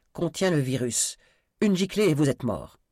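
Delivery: high, loud deadly threat; threatening warning. Acted. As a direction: warn them off with force. Threat with virus vial.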